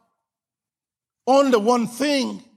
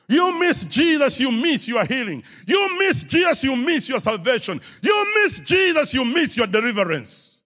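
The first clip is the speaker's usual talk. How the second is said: building preaching shout; 2 semitones higher than usual. Real, not acted. Refrain rising each time.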